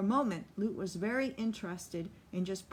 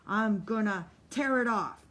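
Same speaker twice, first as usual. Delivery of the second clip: louder, raging threat; screamed threat; 2 semitones higher, 6 dB louder than usual. Acted. Solly screaming a threat while pinning Lute. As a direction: scream the threat into his face. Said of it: "Solly's voice screamed against him".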